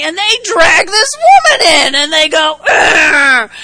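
loud, rising outcry as they burst in; loud dramatic retelling. Retold or imitated. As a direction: shout the scene as the crowd drags her in. Drag woman before Jesus.

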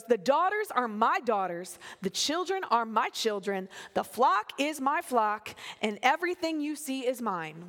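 man tantrum, acted out; emphatic, possessive mock protest; Laban. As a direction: insist on each claim like a petulant man. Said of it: "having a full-on man tantrum".

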